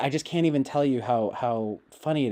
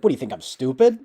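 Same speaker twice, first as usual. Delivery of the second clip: imitating Charles Carroll; 7 dB louder, faster than usual. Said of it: "something Charles Carroll says a lot will be like".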